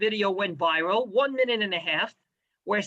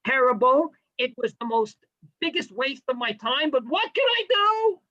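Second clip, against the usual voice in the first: mock complaining; 3 semitones higher than usual. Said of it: "You gotta come out of this year with a sour face".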